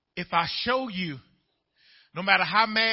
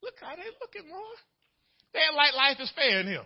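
usual speaking voice

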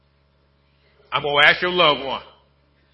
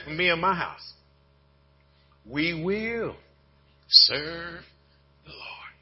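softer and softer until the last words are whispered; fading to a whisper; 3 dB quieter, much slower than usual. Acted. Pastor reading Joshua's vow to the church, fading into a whisper. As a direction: let the vow sink down to a hushed whisper.

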